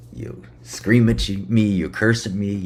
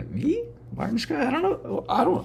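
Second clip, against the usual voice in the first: much higher, squeaky playing-dumb voice; mock innocent voice; 4 dB quieter than usual. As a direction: play dumb in a high little voice. Mock innocent self-questioning.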